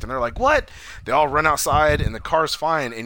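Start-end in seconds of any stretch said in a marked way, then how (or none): 0.4-0.7 high, loud startled question; mock shock. Family hearing the car was wrecked, mock shocked. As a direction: imitate an alarmed family's yelp of disbelief.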